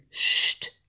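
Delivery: breathy whispered sst; whispered shush. Acted. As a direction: hush them in a whisper. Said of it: "fluisterde de haas". (de haas sist fluisterend sst)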